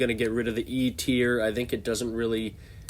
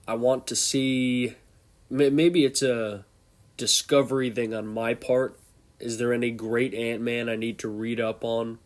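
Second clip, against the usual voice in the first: congested. Real, not acted. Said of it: "Sorry if I sound a little congested".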